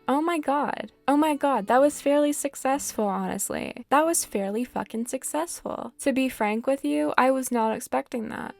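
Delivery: can't believe it worked; excited disbelief at the result; thrilled surprise. Real, not acted. Surprised success in game.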